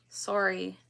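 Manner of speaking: "Sorry" with a rounded SORE first syllable; northern-accented "Sorry", first vowel like "sore"; Minnesota-style pronunciation. Shown as a demonstration. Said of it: "My friends in Minnesota and Wisconsin say".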